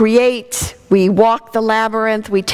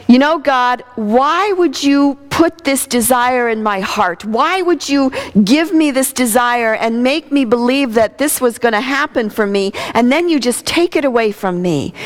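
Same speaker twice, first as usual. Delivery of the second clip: anguished prayer; 3 semitones higher than usual. Retold or imitated. Pleading with God on track.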